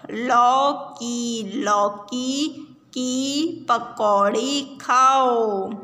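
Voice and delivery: slow, chanted reading with repeats; sing-song reading. Shown as a demonstration. Teacher chanting a reading line for pupils. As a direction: chant it slowly so children repeat. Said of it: "reading drill with the class".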